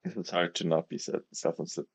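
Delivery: speaking around a swollen tongue; stumbling over words with a bitten tongue. Real, not acted. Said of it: "I can't speak".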